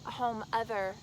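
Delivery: slow, deliberate recital; poetry reading. Acted. Poet reads The Men I Love, slow deliberate recital. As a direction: let each short phrase stand alone, slowly.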